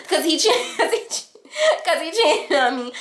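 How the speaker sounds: high, broken-up exclamation; exaggerated high wail, breaking into laughs; mock wailed answer. Acted tearful or laughing answer, high.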